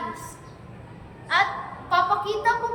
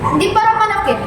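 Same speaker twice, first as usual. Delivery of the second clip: remorseful middle brother, low projected voice; low, conflicted stage monologue rising toward determination; Don Diego; 5 semitones lower, 10 dB louder, faster than usual. Acted. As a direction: confess guilt in measured phrases, then find resolve.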